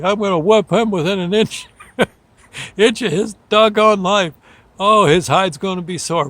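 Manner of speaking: put-on a dad blowing off steam about his kid; mock angry threat. Dad vows punishment for his drunk son, mock angry.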